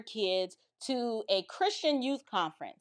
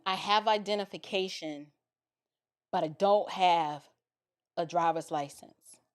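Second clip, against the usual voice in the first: soft, low, halting admission; sheepish confession; 6 semitones lower, 6 dB quieter than usual. Retold or imitated. Teen driver admitting to the officer, sheepish.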